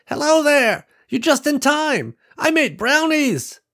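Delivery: put-on high, loud old woman calling out from the porch; old woman greeting visitors from her porch, strong and clear. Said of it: "her voice strong and clear".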